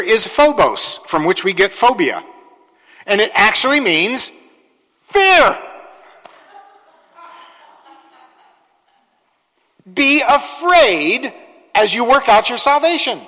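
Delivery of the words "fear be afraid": much higher, slow be afraid; dramatic fear. Shown as a demonstration. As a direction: paint the fear slowly.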